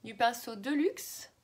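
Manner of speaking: speaking right after biting tongue; just bit tongue. Real, not acted. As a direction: talk around a sore bitten tongue. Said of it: "je me suis mordu la langue".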